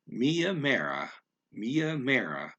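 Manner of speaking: Mia Mara slow, both syllables even. Shown as a demonstration. Learner practising the even Mia Mara. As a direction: say Mia Mara slowly and evenly. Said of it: "evenly pronounced".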